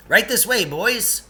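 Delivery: high, bright tour-guide call; cheery guide voice. Acted. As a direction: beckon the boys along cheerily. Character voice of Lance.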